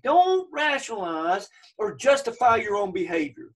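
emphatic warning, leaning hard on DON'T. Retold or imitated. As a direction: press firmly on "don't" and draw it out.

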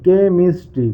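কেমিস্ট্রি slowly split into three beats, ke-mis-tri; broken into syllables. Shown as a demonstration. Teacher counting syllables for students, কেমিস্ট্রি split as ke, mis, tri. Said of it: "উচ্চারণ করে দেখে নেবো যে কটাতে পার্টে ভাঙছে".

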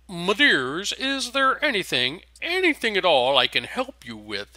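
high, fluting, solemn servant voice; burbling pink elephant. A narrator's reading. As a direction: coo like a helpful giant elephant. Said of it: "it burbles".

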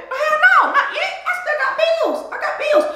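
high, giggling denial; laughing. Real, not acted. Woman laughing that she still has bills, high giggles.

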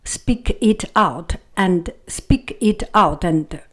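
"Speak it out" word by word; deliberate, unlinked "speak it out"; each word separate. Shown as a demonstration. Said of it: "every single word".

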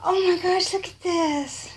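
loud, high delighted exclamation; real gushing excitement; thrilled. Real, not acted. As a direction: burst out in amazement. Opening a surprise gift.

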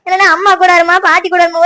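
ordinary delivery

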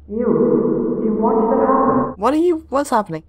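ghostly twin. Acted. Drowned twin accuses the girl, eerie and mournful. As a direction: speak as the drowned twin, hollow and hurt.

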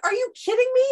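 high incredulous outburst; are you kidding me. Real, not acted. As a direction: scoff in disbelief, way up high. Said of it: "disbelief at the rule".

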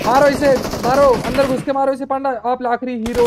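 excited urging. Real, not acted. Urging teammate to kill.

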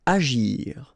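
whispered. Shown as a demonstration. Whispered headword.

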